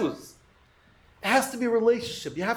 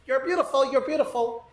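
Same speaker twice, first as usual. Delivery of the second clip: parrot; faster than usual. Acted. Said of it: "whenever I pass by this parrot".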